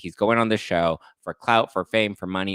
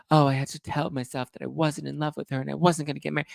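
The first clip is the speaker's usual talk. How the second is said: higher, fast mock of his excuse; mock excuse-maker; 7 semitones higher, faster than usual. Mocking his text reply in a higher, fast voice. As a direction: rattle it off like a flimsy excuse. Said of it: "why is it like".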